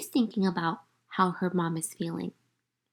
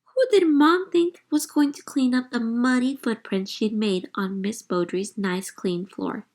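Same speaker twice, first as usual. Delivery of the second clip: shocked; 4 dB louder than usual. Acted. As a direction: gasp at the muddy footprints. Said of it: "I was shocked".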